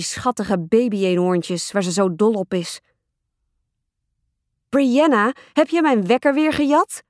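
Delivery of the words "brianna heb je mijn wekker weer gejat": mildly yelled, higher-pitched accusation; half-yell it as an annoyed accusing question; indignant yell. A narrator's reading. Older sister accusing Brianna of stealing her alarm clock, indignant yell. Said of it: "gilde ik".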